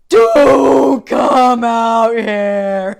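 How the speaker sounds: drawn-out slow-motion bellow; very loud, slow-mo retold yell; gut scream. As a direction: re-enact a huge scream from the gut, every word stretched. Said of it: "I screamed really loud, like, from the gut".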